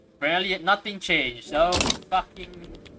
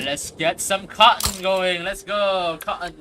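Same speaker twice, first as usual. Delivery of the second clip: badly faked Southern drawl, pitched up and slow to start; mock Southern cheer, higher voice; attempted Southern accent; 4 semitones higher, 5 dB louder, slower than usual. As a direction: hype it up in a failed Southern accent. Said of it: "attempting to do a southern accent".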